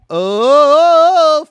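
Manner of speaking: a sudden loud, high "Oh"; mock exclaimed oh. Streamer reads a chat reaction aloud, big mock oh. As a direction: blurt it out like a shocked chat message.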